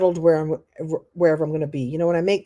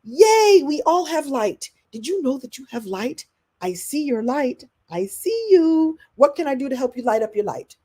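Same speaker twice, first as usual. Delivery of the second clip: excited cheer; 5 semitones higher than usual. Retold or imitated. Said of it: "I've been here all along to go".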